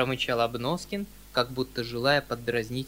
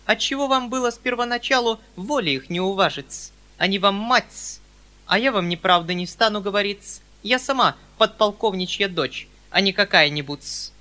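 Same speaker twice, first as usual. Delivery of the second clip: with dignity; 6 semitones higher, 8 dB louder than usual. Acted. Perepelitsyna answers the uncle with prim dignity. Spinster continues haughtily.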